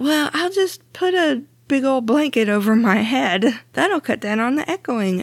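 muffled, under a blanket. Real, not acted. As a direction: talk with a blanket over your head. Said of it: "Me sitting under a blanket".

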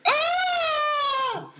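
put-on high shrill shout of a choking old lady; a loud high mock cry, laughing through it; mock scream. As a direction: yell it like a sudden alarm from across the room. Grandma choking again, yelled.

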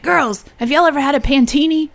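put-on amateur Jersey accent, lightly done. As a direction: do your best Jersey guy impression. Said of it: "this is my best Jersey accent".

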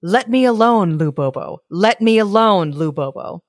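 a monster grumbling at the gate; loud muttering monster. Acted. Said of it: "a voice loudly muttering".

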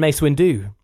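"Windu" stressed on the last syllable, win-DU; wrong name emphasis. Shown as a demonstration. Reading out names with wrong emphasis, deliberately misstressed "Windu". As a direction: push the stress onto the end of "Windu". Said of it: "putting the emphasis, he says, on the wrong part of names".

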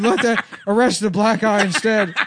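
high, loud mock commissioner; Commissioner Gordon voice. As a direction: announce yourself as a pompous chief.

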